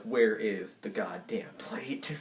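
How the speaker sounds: slow, word-by-word mock demand; low, deliberate retold irritation; mad, restrained. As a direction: space out each word in contained anger. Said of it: "mad, right".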